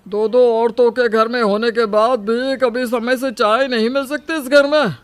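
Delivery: loud, irate husband's voice; angry husband scolding. Acted. Husband demanding his morning tea from his wife, angrily scolding. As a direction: scold loudly in an indignant husband's voice.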